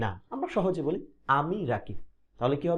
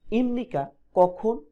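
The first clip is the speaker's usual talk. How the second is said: ইমনিকা said higher, louder and slow; stressed question word; 6 semitones higher, 4 dB louder, slower than usual. Shown as a demonstration. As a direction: lift ইমনিকা to hook attention. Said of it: "তাহলে". (ইমনিকা শব্দে জোর দিয়ে ধীরে বলা)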